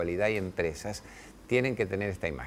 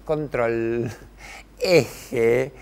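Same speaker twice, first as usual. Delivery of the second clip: louder, steady fatherly instructions; Spanish: papá firme y calmo; calm firm father; 2 semitones higher, 7 dB louder than usual. Retold or imitated. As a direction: coach a climbing child to keep balance. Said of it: "Yo decía".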